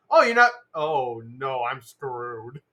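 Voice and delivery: slow, dropping into a low dread; mock scared villain. Villain facing silent Spider-Man, mock dread. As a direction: let the realization sink in. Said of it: "villain can see is like".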